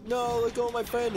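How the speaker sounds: high, panicky imitation of Chewie's outburst; mock flipping out. Retelling Chewie defending C three P O, mock flipping out. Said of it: "flipping out".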